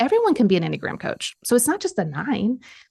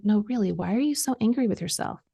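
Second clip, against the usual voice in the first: calm patient voice; 4 dB quieter than usual. Retold or imitated. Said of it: "very calm, patient voice".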